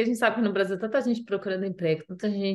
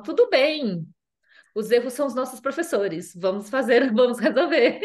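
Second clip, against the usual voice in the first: kind boss; 5 semitones higher, 4 dB louder than usual. Retold or imitated. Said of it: "eles falam".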